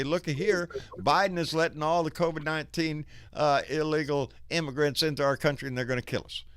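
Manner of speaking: staticky, breaking-up mic; crackling bad connection; crackly cordless phone. Real, not acted. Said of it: "Yeah, you're really fucking staticky".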